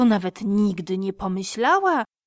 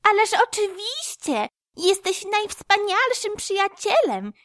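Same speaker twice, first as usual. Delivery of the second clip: high, bright squirrel voice; a happy chirping squirrel; joyful squirrel; 12 semitones higher than usual. A narrator's reading.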